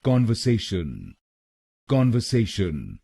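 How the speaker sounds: कॉन्वर्सेशन with an open "kon" at the start; correct pronunciation. Shown as a demonstration. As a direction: say कॉन्वर्सेशन as kon-ver-sey-shun, clearly and carefully. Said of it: "इसको बोलिए".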